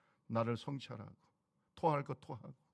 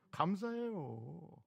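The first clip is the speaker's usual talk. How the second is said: tender thanks; 3 semitones higher, much slower than usual. Acted.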